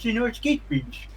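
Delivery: toothy townsperson. Acted. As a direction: play a sibilant local, pitched well up. Game master voices a townsperson.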